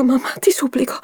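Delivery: whispered high plea; desperate whisper. Acted. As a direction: breathe the plea out to mother. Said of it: "con la faccia stravolta". (supplica sussurrata)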